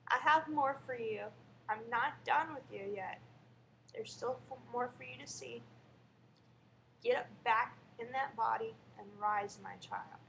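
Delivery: loud, solemn voice of Jesus; warm regal boom. Retold or imitated. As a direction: speak as a tender, commanding Jesus. Jesus sends her back to life.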